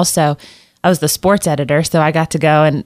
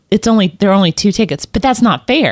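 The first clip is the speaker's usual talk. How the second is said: imitating a daughter's protest, pitched up; upset child; 2 semitones higher than usual. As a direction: protest like a wronged kid. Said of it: "oh, she was upset".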